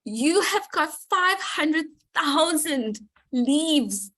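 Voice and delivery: fighting back real tears while thanking him; choked up. Real, not acted. Thanking Herky for holding the community, choked up and tearful. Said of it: "I'm sorry, I'm getting emotional".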